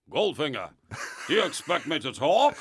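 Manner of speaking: a hint of Connery's Bond, badly done; lightly imitated Scottish film spy; Sean Connery. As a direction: challenge the villain, rising on the question. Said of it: "This is Sean Connery".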